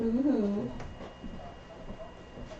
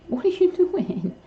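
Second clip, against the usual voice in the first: laughing question; 9 semitones higher, 3 dB louder, slower than usual. Real, not acted. Bird doing something funny.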